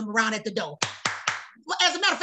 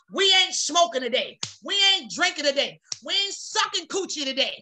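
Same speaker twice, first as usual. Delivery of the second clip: firm self-command; 5 semitones higher than usual. Acted. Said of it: "tell it".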